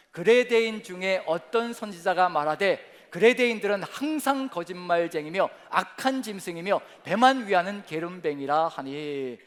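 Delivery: loud, slow unison scripture reading; reading scripture aloud together. Real, not acted. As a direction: read it out with the congregation, slowly. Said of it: "같이 시작".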